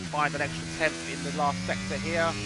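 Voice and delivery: animated sim-racing play-by-play; live race commentary. Real, not acted. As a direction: call the action as it unfolds. Calls live race action.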